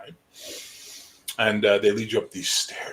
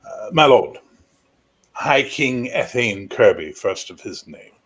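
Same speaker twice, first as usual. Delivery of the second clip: knight's announcement; 6 dB louder than usual. Acted. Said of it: "and he goes".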